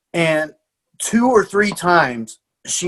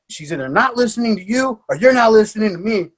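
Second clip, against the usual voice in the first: retold yelling; 5 semitones higher than usual. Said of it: "just screaming in his ear".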